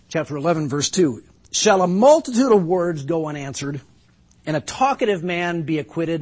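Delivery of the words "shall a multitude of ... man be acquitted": ungracious rebuke. Acted. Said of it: "his less than gracious words".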